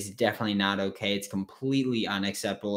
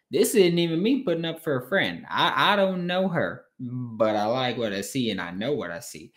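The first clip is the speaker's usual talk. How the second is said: put-on half-hearted take on a coach's accent, pitched up at first; Kim Mulkey. Host retelling a coach's press conference remarks, half-done accent. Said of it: "that was my kinda accent".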